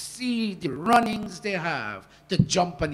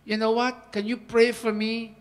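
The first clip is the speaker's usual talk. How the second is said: humble pleading reply; 4 dB louder than usual. Retold or imitated. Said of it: "But if you can say".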